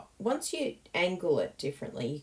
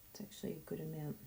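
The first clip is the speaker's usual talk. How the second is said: whispered; 11 dB quieter, faster than usual. Real, not acted. Quiet aside.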